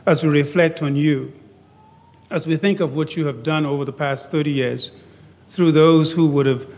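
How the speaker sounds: measured, reverent prayer in phrases with pauses; public prayer. Real, not acted. Leads a prayer.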